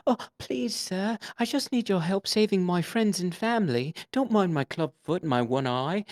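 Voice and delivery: put-on high pleading orphan boy voice; high, pitiful Cockney orphan begging for help; pitiful Dickensian orphan. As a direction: beg like a ragged Victorian urchin. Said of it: "a Dickensian orphan who's like".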